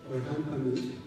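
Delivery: ordinary talk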